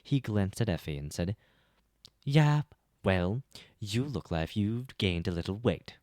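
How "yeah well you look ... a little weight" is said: offended comeback. Acted. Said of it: "With an offended frown".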